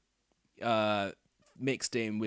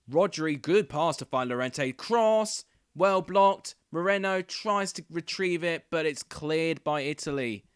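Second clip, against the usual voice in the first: loud, high play-by-play of the cross; excited commentary; 4 semitones higher, 5 dB louder, slower than usual. Real, not acted. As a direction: call the attack like a live commentator. Live commentary, cross blocked.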